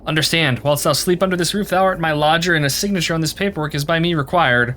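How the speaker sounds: archaic speech. Pretend. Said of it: "When did you start talking like this?".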